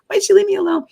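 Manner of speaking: a high, forlorn little wail of leave me alone; abandoned whine. Retold or imitated. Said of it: "it's really what I was thinking".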